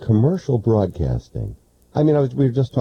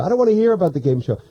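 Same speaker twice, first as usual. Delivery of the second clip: fast mock complaint; 6 semitones higher, much faster than usual. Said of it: "I'm talking to the radio".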